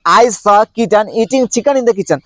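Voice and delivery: each word spaced out, very slowly; slow tongue twister. Shown as a demonstration. Teacher modeling a tongue twister slowly for learners. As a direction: drill it slowly for the students. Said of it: "क्या है?".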